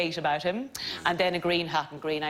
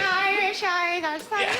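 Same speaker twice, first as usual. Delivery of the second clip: mock creepy doll voice; 13 semitones higher, slower than usual. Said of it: "Is it like a Chucky doll".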